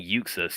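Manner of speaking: "Uxas" said YOOK-sus; Yuxas pronunciation. Shown as a demonstration. Co-host admitting an old habit, YOOK-sus pronunciation. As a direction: say "Uxas" opening with a you sound. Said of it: "I was saying Uxas".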